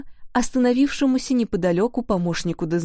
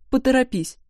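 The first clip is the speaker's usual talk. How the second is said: stern order; 5 semitones higher than usual. A narrator's reading. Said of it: "строго сказала Майресса".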